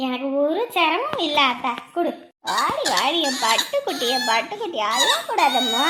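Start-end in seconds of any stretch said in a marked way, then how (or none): 2.5-5.9 swooping, singsong soothing; tender lilting comfort; cooing baby talk. Acted. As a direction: coax a crying baby to stop.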